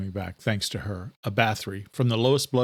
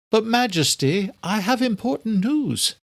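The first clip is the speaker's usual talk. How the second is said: higher, urgent servant voice; pleading with her king, higher and slower; anxious servant, higher; Adela's voice; 11 semitones higher than usual. A narrator's reading.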